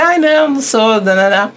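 high, giggly brush-off; playful giggling denial; laughing it off. Retold or imitated. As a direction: laugh while turning the compliment away. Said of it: "E eu comecei a rir".

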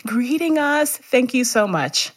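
high, mock-weepy thanks; gushing tearful voice, easing down at the end; imitated tearful gratitude. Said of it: "some people stopped and cried".

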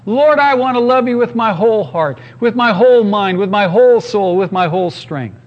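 heartfelt declaration of devotion; fervent prayer. Acted. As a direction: pray it out with each WHOLE leaned on.

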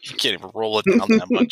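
whispered mocking jab; whispered teasing aside. Real, not acted. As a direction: hush it like a secret tease.

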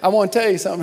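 lightly mimicked confrontational approach; imitating a churchgoer. Man confronting a pastor on the street, lightly imitated. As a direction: quote him with a hint of confrontation. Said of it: "that's how he said it".

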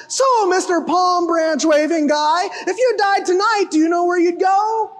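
laughing, hammed-up evangelist pitch; mock the street-preacher question; mock preachy question. Preacher mocking a pushy evangelist, half laughing. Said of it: "not a picture of Jesus asking them".

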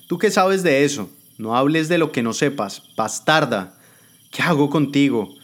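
high, indignant retort; offended Jimena. Acted. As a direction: bite back at the insult. Jimena rebuts the insult.

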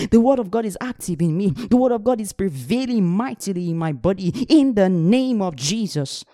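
fervent, rhythmic confession of faith; preaching declaration. Acted. Preacher declaring faith over the congregation, fervent. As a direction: proclaim each line with conviction.

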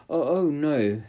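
high, loud frightened cry; cartoon princess. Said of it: "said the princess".

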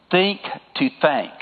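slow southern accent on "Think to thank". Real, not acted. Preacher giving the congregation a key sentence, southern accent. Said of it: "That's my southern accent bleeding through".

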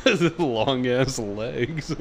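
slow, laughing through it. Real, not acted. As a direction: giggle out the words.

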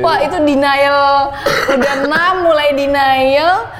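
drawn-out words through real laughter; laughing. Real, not acted. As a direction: laugh while stretching each word out. Laughing at own story.

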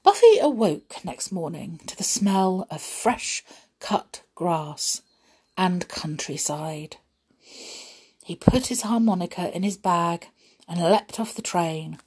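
measured, expressive storybook reading; unhurried tale-telling with lively emphasis; story narration. A narrator's reading. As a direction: read it to children, stressing key words. Reads children's adventure story.

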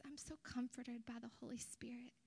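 whispered and soft; quiet awed gratitude; hushed quote. Retold or imitated. Friend's whispered gratitude retold by preacher, hushed. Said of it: "she says".

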